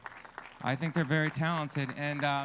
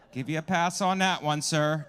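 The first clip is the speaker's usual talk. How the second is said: louder, raised voice, half laughing; mock stern callout; 2 semitones higher, 7 dB louder than usual. Real, not acted. Comic calling out a coughing audience member, loud and teasing. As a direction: scold the cougher with a grin.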